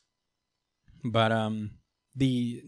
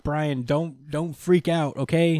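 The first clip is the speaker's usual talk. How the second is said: mock urgent calming; 5 semitones higher, 4 dB louder, slower than usual. Everybody calming Brian down.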